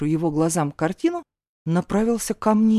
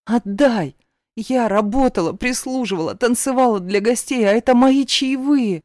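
trembling demand; 4 semitones higher, 4 dB louder than usual. Acted. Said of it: "потребовала заметно дрожащим голосом".

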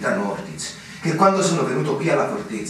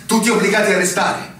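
louder, higher, rising indignation; indignant outburst; 5 semitones higher, 3 dB louder than usual. Acted. Lieutenant confronting his captain about the lies, indignant outburst. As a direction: let it build into bitter anger. Lieutenant realizes he was deceived.

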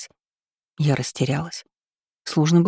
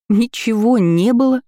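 higher and louder, echoing it in disbelief; stunned repeat; 6 semitones higher, 4 dB louder than usual. A narrator's reading. Lira echoing Florence's denial, stunned disbelief. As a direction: repeat it back, thrown by the answer. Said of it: "ошарашенно повторила Лира".

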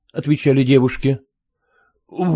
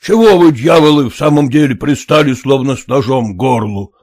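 shouting; 4 dB louder than usual. Acted. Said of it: "закричал на мужиков".

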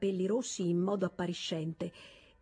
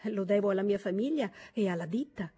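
earnest. Acted. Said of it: "soggiunse con serietà".

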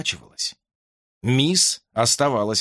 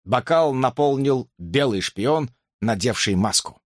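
ordinary delivery

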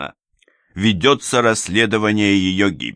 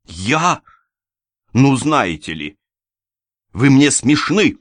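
loud, slow, high scornful shout; 8 semitones higher, 7 dB louder, slower than usual. A narrator's reading. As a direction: yell her contempt. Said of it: "Она кричала уже в голос". (кричит в голос, высоко и медленно)

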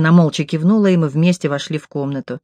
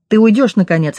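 a mild snapped command, slightly raised; barking order; 3 semitones higher than usual. Acted. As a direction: snap at him to finally leave. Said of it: "рявкнула я". (сдержанно рявкнуть, выгоняя)

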